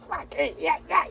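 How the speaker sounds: high, soft mock shrug of giving up; mock resigned shrug. Trucker remembering giving up on a loan, high and soft. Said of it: "I'm like".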